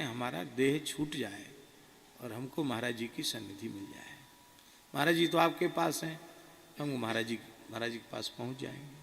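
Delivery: a hushed, despairing prayer to the Lord; anguished prayer. Retold or imitated. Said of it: "आर्त भाव से भगवान से कहा".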